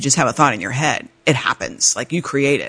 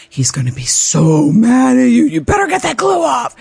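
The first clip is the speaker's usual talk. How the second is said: put-on inner little girl; 8 semitones higher, 4 dB louder than usual. Inner child scolding herself, mild child voice. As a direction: fret like a child in trouble. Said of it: "a little girl going".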